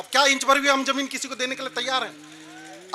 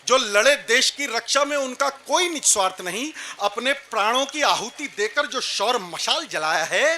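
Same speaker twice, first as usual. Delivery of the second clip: measured patriotic verse recital; poetry recitation; 3 semitones lower, 4 dB quieter than usual. Acted. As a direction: recite heroic verse to a gathering. (वीर रस का काव्य पाठ)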